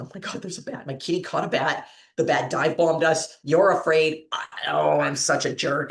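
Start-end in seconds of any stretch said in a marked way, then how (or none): 0.0-4.2 put-on giggly speech broken by laughter. Retelling finding a bat her cat caught: reenacting laughing speech. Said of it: "And I'm still laughing".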